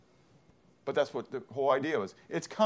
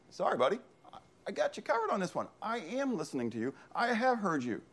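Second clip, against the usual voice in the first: softer, higher, placating voice; reassuring reply; 7 semitones higher, 5 dB quieter than usual. Retold or imitated. God answering the complaining prophet, soft reassurance. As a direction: play a gently reassuring God, lightly and softly. God's calm reply acted out.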